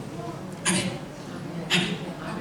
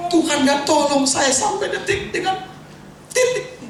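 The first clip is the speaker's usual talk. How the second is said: high-pitched mock plaint to God, climbing higher; acted complaint; 11 semitones higher, 4 dB louder than usual. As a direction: protest in a high voice, stretching the final question. Acts out his complaint to God.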